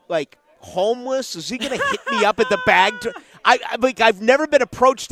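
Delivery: high, laughing disbelief, words quickening; recalling his own thought at the bag drop, laughing; laughing through it. Real, not acted. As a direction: chuckle while telling the absurd worry. Laughing at the memory.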